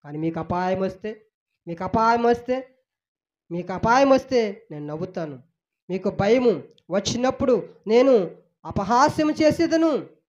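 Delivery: a hurt father saying I called and you did not listen; God's voice. Acted. Preacher voicing God reproaching the people who ignored him. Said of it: "అని దేవుడు ఎన్నోసార్లు దేవుడు పిలుస్తుంటే".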